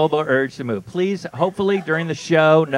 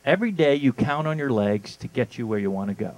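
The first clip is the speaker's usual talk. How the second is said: ad read; 4 semitones lower than usual. Shown as a demonstration. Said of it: "I'm gonna read it to you now".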